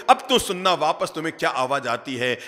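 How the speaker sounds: ordinary delivery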